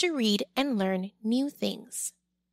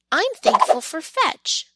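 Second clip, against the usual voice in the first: louder and higher, calling out happily; calls out; 6 semitones higher, 7 dB louder than usual. Acted. Pearl calls out to Squirrel while walking, loud and happy. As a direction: call it across the yards. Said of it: "Pearl calls".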